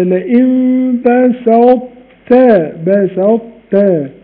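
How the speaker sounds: very slow بسطت keeping ط's heaviness before ت; بسطت with a trace of ط; partial merge. Shown as a demonstration. Teacher showing the four exceptions, slow. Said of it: "آه".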